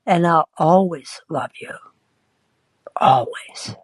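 hushed, voiceless "Always"; whispered love line; tender whisper. Retold or imitated. Tender love declaration retold.

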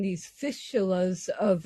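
toothless lisp on the S sounds; no teeth, lisping S's; lips over teeth. Real, not acted. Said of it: "sorry about the S's, no teeth".

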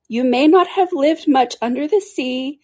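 high-pitched creature voice; Mock Turtle, earnest. A narrator's reading.

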